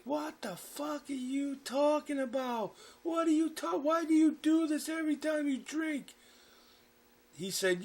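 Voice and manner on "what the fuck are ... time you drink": high-pitched imitation of a distraught mother; acted tearful, high-pitched outburst; screaming and crying. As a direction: wail it in a much higher voice. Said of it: "my mother's screaming and crying".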